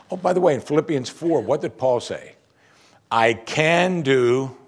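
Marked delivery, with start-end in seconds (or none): 3.1-4.6 drawn-out "I can do"; slow mock misquote. Shown as a demonstration. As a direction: stretch it out slowly. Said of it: "No. He said".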